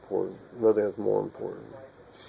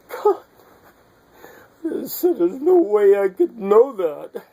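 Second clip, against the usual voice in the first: excited exclaiming; 10 semitones higher, 8 dB louder than usual. Retold or imitated. Retold moment of revelation, exclaiming.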